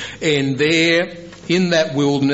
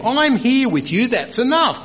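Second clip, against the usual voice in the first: God reassuring Moses; 11 semitones higher than usual. Retold or imitated. Preacher paraphrases God answering Moses.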